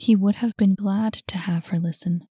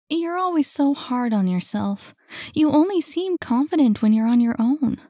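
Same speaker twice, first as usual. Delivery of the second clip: put-on higher young woman, gently chiding; higher caring young woman voice; voiced Saphira; 6 semitones higher, 4 dB louder than usual. A narrator's reading. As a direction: lift the voice for her earnest concern.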